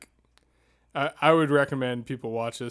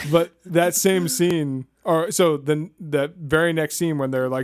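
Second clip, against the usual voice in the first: mic clicking; 3 semitones higher than usual. Real, not acted. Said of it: "sounds like your mic is clicking".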